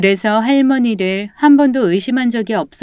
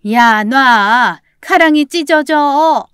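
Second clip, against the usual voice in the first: loud, drawn-out cry of pain; pained yelling; 5 semitones higher, 5 dB louder, much slower than usual. Acted. Grandmother held by the leg, yelling in pain. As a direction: yell slowly in agony to be released. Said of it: "고통스럽게 소리를 지르고 있었습니다".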